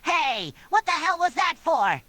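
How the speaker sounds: high-pitched, mildly affronted protest; slightly offended and annoyed. A narrator's reading. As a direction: sound put out, voice jumping up. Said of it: "slightly offended and annoyed tone".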